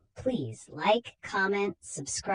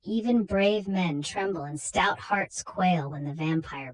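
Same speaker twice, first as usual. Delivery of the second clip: spooky horror intro. A narrator's reading. Narrator setting a chilling mood, lightly ominous. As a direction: ease into the dread like an old radio host.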